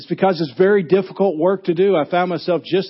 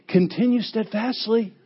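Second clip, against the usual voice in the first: stiff and proper; 6 semitones higher than usual. Shown as a demonstration. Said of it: "he's not saying".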